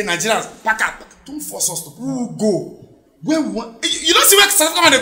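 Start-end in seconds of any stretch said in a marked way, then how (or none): 0.0-2.8 soft, low grumbling demand; low mock complaint. South Africans complaining at Nigerians, low and soft. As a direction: mutter it like a grumbling neighbour.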